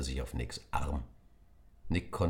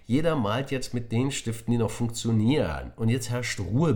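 louder teacher voice laying down rules; teacher demanding silence from the class; firm and loud; 6 semitones higher, 5 dB louder than usual. Acted. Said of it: "laut und deutlich".

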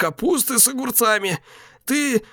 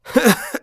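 short, high, strained chuckle; brief higher laugh through pain; weak pained laugh; 11 semitones higher than usual. Acted. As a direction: laugh despite the wound. Dying Alex laughs.

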